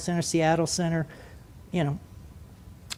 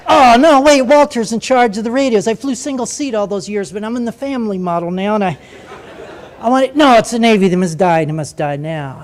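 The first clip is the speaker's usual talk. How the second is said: mock excited urge; 4 dB louder than usual. Excited inner monologue, wanting to transmit.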